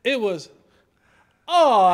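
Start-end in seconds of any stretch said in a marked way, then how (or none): 1.5-1.9 loud outburst, pitch up; retold shout. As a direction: call it out loud, shocked. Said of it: "it wasn't a whisper".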